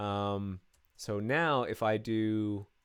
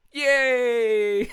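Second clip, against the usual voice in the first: high, loud yelp of joy; excited cheer; 13 semitones higher, 12 dB louder than usual. Real, not acted. Coder cheering when the item gets removed, high loud yay. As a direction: whoop like the test just passed.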